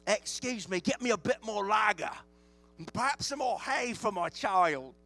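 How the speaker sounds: loud mock French accent, sounding English; hammed-up, botched French accent; bad French accent. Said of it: "That's my French accent".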